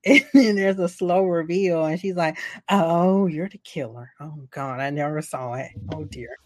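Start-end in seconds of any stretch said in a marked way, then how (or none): 2.7-6.4 mock deadpan dismay. Sidney's flat slow reveal.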